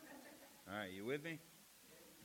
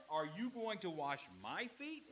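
"you" raised in disbelief, slow question; stress on YOU. Acted. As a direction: lean on "you" as Peter questions his Lord. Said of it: "the emphasis is on the you".

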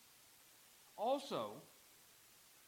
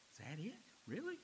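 disappointed disbelief; 3 semitones higher, 5 dB quieter, faster than usual. Retold or imitated. Preacher voices believers let down by heaven, incredulous rise. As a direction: let Really leap up in letdown disbelief.

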